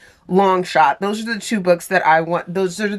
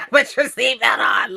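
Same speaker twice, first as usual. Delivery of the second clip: mock shout; 3 semitones higher than usual. Telling character to brace.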